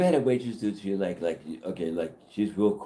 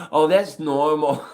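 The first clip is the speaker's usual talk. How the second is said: high, slow, laughing mock reply; high, slow mocking impression; mock dismissive woman; 8 semitones higher, 9 dB louder, much slower than usual. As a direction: drawl it out like a snooty lady, laughing.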